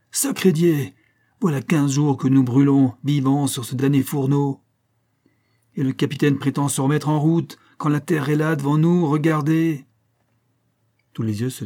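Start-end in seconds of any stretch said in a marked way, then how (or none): 0.1-9.9 high, loud furious outburst over the crowd; shrill angry cry. Acted. Sailor shouting at the captain in the uproar, high angry yell. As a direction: yell in protest, pitched high and hot. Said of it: "Une voix aiguë domina un instant le tumulte et cria".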